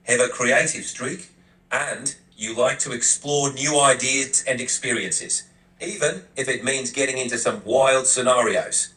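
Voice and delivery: badly faked Australian accent. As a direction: attempt a light Aussie accent. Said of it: "Maybe an Australian accent".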